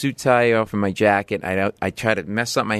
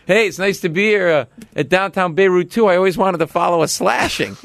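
mock nervous opener; 6 semitones higher than usual. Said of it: "I go".

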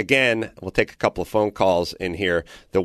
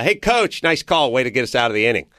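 mild retold holler, pitched up at first; retold sarcastic yell. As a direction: call out to the coach, not at full volume. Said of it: "And I yell".

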